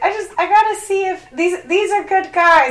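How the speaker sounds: imitating the neighbor lady. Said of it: "and she's like".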